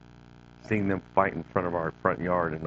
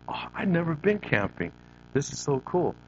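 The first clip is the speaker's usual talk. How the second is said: put-on excited child; 7 semitones higher than usual. Child self excited about camping.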